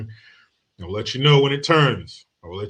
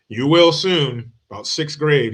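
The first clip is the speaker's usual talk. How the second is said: knowing parents; 4 semitones higher, 7 dB louder than usual. Retold or imitated. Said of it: "my wife and I almost at the same time go".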